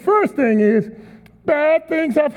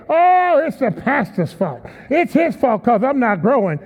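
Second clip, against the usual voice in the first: whiny blamer. Retold or imitated. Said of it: "they'll even come to church".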